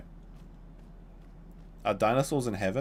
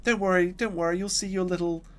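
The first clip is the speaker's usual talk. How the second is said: higher, mock-soothing voice; reassuring cousin; 9 semitones higher than usual. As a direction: imitate someone hurriedly comforting a kid. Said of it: "He's like".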